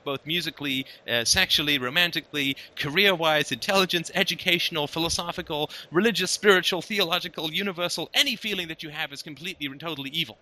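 mock-solemn list building to a sweeping verdict; hammed-up denunciation, item by item; exaggerated condemnation. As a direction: reel off each sin, then rush the final judgment. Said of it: "that's a bit of an exaggeration".

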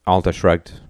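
ordinary delivery, nothing marked

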